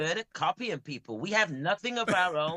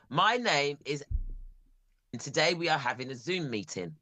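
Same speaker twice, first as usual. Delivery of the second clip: English accent; 4 semitones lower than usual. Shown as a demonstration. British man gives a sample sentence in his English accent. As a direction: model line in his own British accent. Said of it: "I'll give you an English sentence".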